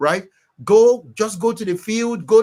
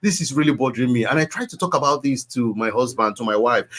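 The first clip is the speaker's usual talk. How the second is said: talking to God; 4 semitones lower than usual. Shown as a demonstration. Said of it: "you can talk like this".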